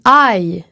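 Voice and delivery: I gliding from A to I; English diphthong. Shown as a demonstration. Teacher modelling the English diphthong in I. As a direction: glide from a to i in I. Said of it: "ça se dit".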